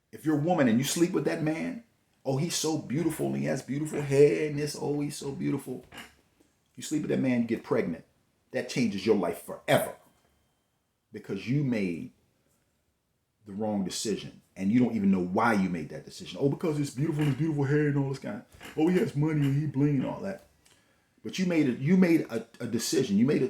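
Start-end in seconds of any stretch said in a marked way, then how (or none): 2.2-5.9 higher, gushing voice of a smitten woman; imitating a dreamy, lovestruck woman; mock infatuated woman. 16.4-20.5 higher, quicker gushing voice of a smitten woman; imitating a dazzled, lovestruck woman; mock infatuated woman.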